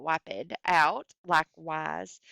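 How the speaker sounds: "wiped" said as two syllables, wip-ed. Shown as a demonstration. Teacher showing the class how "wiped" scans, wi-ped. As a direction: stretch "wiped" into wi-ped for the meter. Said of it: "on the syllable".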